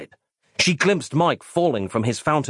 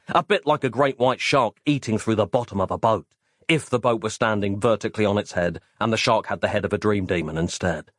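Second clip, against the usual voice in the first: plain reading voice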